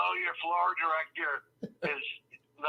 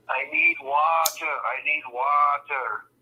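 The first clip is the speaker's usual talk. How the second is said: hammed-up dying man croaking for water; desperate parched plea; 7 dB louder, slower than usual. Stumbling Scotsman begs the tie seller, slow desperate plea. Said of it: "parched, almost dead".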